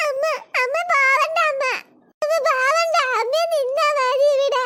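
mild mock crying plea to mother; hint of a crying child begging mom to stay; pleading. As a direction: beg mommy not to go, a touch tearful. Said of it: "ഉടനെ തുടങ്ങി കരച്ചില്".

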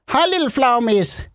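high-pitched hello to a tiny animal; cutesy greeting. Pretend. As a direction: coo it high, as to a pet. Greets a bat in the game. (lys, kælen hilsen)

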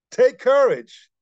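slow, emphatic call to take courage. Acted. Jesus calling across the waves to the frightened disciples, firm loud reassurance. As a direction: lift the voice, command courage. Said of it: "Jesus says".

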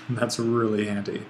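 repeats it through a small chuckle; amused, half laughing; light laugh. Real, not acted.

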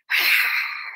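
breathy pretend ogre roar; voiceless mock ogre growl; playful ogre noise. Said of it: "our best ogre noises".

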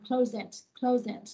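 "close it" with the z sound linked into "it"; linked final consonant. Shown as a demonstration. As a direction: run "close" into "it" as "clo-zit". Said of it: "close này là âm giờ cuối".

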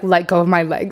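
mock-serious low-key order; retold stern request, no whisper. Dancer to customer in his ear, mock very serious. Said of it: "Like, very serious".

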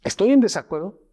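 measured, amiable reassurance with pauses; kind prosody. Acted. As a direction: keep it kind while disagreeing. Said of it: "Voy a ser amable con mi prosodio".

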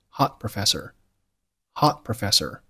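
"hot professor" with a silent held t in "hot"; unreleased t. Shown as a demonstration. Teacher showing lost plosion to learners, unreleased t in "hot". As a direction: hold the t of "hot" without a burst, then "professor". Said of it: "留出时间不发声音".

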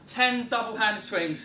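loud, slow set call; rally the class for the set; coach callout. Real, not acted. Coach calls the next set.

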